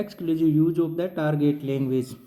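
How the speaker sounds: dictating the heading at very slow pace; drawn out word by word for note-taking; teacher reading a heading slowly for notes. Shown as a demonstration.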